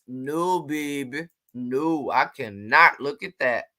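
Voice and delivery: put-on a flat low refusal, "no, baby". Shown as a demonstration. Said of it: "In my no-lo voice".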